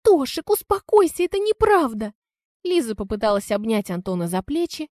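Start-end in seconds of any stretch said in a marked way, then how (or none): 0.0-2.1 loud, high-pitched female plea; high, agitated denial; frantic pleading. A narrator's reading. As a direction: beg him to calm down in a raised voice. Лиза pleads with raging Антон.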